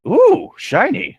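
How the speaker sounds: high, slow drawn-out gasp of delight; mock delight. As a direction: coo at the shiny thing like a magpie. Mock reacting to shiny object.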